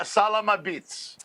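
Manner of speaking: "salama beats" drawn out, each syllable clear; slow salama beats. Shown as a demonstration. Comic teaches the host the phrase slowly, stretching "salama beats". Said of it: "That's, uh, sa".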